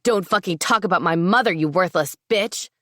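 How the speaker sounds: furious outburst. Acted. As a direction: lash out in a rage. Lewis charges at her.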